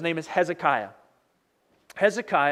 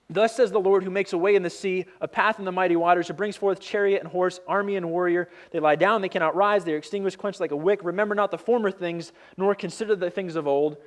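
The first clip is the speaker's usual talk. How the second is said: measured scripture read, each phrase set apart; solemn Bible reading. Acted. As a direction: read it out like holy text. Rereads scripture passage.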